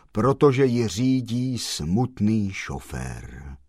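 slow, sorrowful reply; mournful. Acted. Man in black explains the chauffeur, slow and mournful. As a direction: let each word drag with grief. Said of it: "pravil truchlivě".

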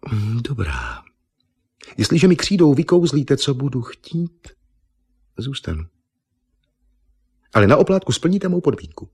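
a proud model who won't be fooled; vain beauty queen. Acted. Miss Nippon insisting to Argon she is no Eva, indignant.

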